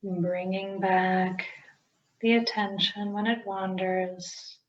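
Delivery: unhurried meditation guide with long pauses; guided meditation. Acted. Teacher guiding listeners into breath-centred meditation, calm guided-meditation delivery. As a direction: ease each instruction out, leaving space to breathe.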